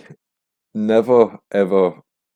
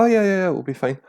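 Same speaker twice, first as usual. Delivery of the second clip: much higher, airy dismissive reassurance; mock breezy host; 11 semitones higher, faster than usual. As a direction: play the carefree host brushing it off. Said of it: "And they're like".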